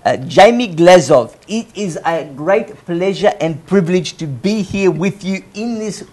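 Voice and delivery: put-on South African accent, amused by the end. Shown as a demonstration. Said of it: "I do a good South African accent".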